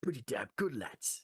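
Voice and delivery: high-starting mock northern English accent; hammed-up Liverpool or Manchester lad. Shown as a demonstration. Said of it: "Liverpool accent or Manchester accent".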